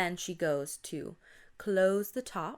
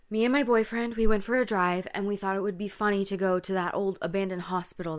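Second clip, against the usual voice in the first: mildly panicked retelling, louder voice; panicked friend; 6 dB louder, faster than usual. Acted. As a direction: play a rattled friend explaining. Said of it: "panicked, panting, breathing heavy".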